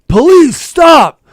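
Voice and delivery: high, loud cop yell; retold shout. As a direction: bark it like a cop chasing you. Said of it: "and he goes".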